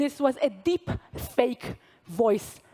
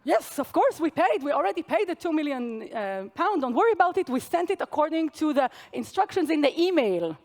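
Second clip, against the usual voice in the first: higher-pitched attempt at an Italian accent; 5 semitones higher than usual. Italian team insisting to Dutch team it paid, mock Italian accent. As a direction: reassure them in a lightly imitated Italian accent. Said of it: "do an Italian accent".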